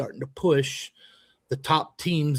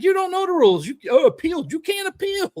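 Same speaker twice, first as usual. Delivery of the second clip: much higher, louder, heated imitated rant; retold heated argument; 14 semitones higher, 4 dB louder, faster than usual. Coach replays telling off the rival coach, heated and high. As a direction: reenact the shouting match at a raised, high pitch. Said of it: "I was like".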